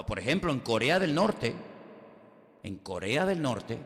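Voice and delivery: ordinary talk, nothing marked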